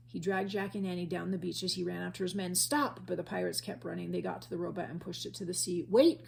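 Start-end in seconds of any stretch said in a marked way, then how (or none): 2.6-3.0 yell. A narrator's reading. Captain yells after pirates. 5.9-6.3 loud high call after the boat; cried out. A narrator's reading. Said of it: "cried Captain Bones".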